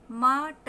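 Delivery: "म, ट" as two slow separate sounds; sounded out. Shown as a demonstration. Teacher breaking down mutter for learners, sound by sound. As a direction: split the word into "म" and "ट", short vowels. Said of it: "उल्टा भी अ का sound देता है".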